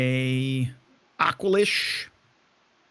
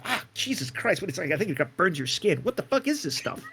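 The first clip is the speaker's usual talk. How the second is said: higher, shocked cursing at a burn; pained outburst; 4 semitones higher, 3 dB quieter than usual. Acted. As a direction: react to stinging liquid. Drink burns the character's skin.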